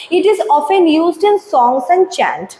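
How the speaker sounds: slow, deliberate textbook read-out; slow reading aloud. Acted. Teacher reading the definition to students, slow and deliberate. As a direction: read the definition slowly for the class. Reads textbook line slowly.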